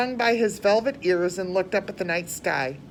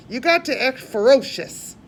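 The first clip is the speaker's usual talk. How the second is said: louder, higher urging; 6 semitones higher, 6 dB louder than usual. Acted. Old lady urging the rabbit to be ferocious, louder. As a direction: egg him on, raising the voice.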